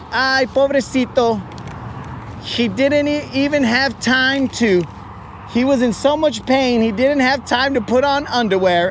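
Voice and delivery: pitying nurse. Retold or imitated. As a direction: coo it like a nurse feeling sorry for him. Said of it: "they say in Spanish".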